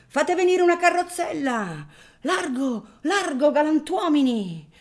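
high, loud alarmed crowd cries; crowd shouting. Acted. Bystanders shouting as the father collapses, high and alarmed. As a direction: call out in panic for help.

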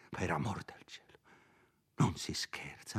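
sottovoce, preoccupato; sussurro ansioso. Acted. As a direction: ammonisci in un sussurro. Curato ammonisce spaventato. (il curato che avverte Renzo, sussurrando)

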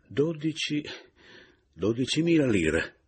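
high, halting, shocked stammer. Acted. (balbettando sconvolto)

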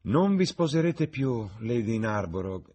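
high, slow, emphatic interjection; interrupting. A narrator's reading. Lord Henry cutting off his hostess, emphatic interruption. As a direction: cut in high, then settle on the name. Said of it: "interruppe Lord Henry".

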